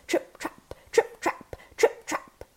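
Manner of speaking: heavier, voiceless TRIP-TRAP; weighted goat's steps. A narrator's reading. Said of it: "By adding weight to his step with rocks".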